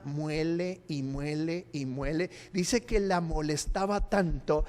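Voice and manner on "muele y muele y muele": relentless nagging. Retold or imitated. Mimics a rival's relentless nagging.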